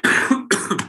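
breathy raspy chick hiss; owl chick begging screech. Shown as a demonstration. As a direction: rasp out a begging owlet call. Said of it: "but the chick goes".

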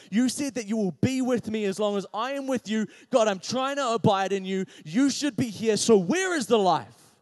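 high, loud demanding prayer; mad at God. Retold or imitated. Preacher retelling questioning God after a death, mounting anger. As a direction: build an exasperated challenge to God. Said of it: "I started to get mad".

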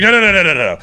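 dad brushing it off, firmly; insistent dad. Retold or imitated. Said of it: "And he's like".

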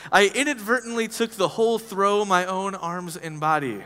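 lightly voiced, a hint of an old-fashioned gentleman reading his letter; old English voice. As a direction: read it like an eighteenth-century letter, only a touch put on. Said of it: "I'll try to say it in my old English voice".

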